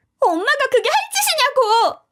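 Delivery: yelling, pitched way up. Reading a story where a sister-in-law shouts at her mother: shouting. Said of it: "저렇게 외치고는 펑펑 울더라고요".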